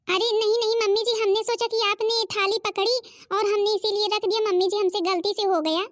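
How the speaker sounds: high, pleading apology; anxious pleading. Acted. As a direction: beg her to believe it was an accident. Daughter-in-law pleading it was an accident. (घबराकर माफ़ी माँगती बहू)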